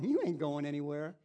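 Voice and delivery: Holy Spirit scolding a believer who is dodging, loud and high; Holy Spirit rebuking. Retold or imitated. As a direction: confront the squirming sinner, rising to a shout. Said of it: "the Holy Spirit's going".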